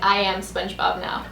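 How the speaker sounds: ordinary delivery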